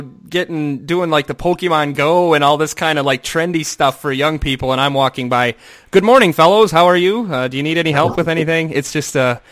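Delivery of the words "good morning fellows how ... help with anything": put-on stiff polite old guy. Mimics himself greeting students.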